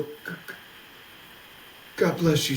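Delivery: re-enacted stammer, words catching before they come out; choked up. Fan shaking his idol's hand, retold choked-up stammer. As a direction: stick on the first sound, then get it out. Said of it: "I got so choked up".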